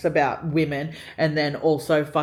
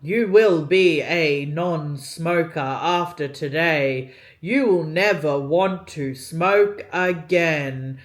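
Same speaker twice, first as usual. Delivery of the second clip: slow droning mock hypnotist voice; lightly voiced hypnotist drone; monotone hypnotist; 3 dB louder, slower than usual. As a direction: imitate the flat recorded voice, slowly. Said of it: "it was so monotone".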